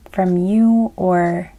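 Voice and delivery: talking through a yawn. Real, not acted. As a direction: stretch the words into a yawn. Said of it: "excuse me, yawning".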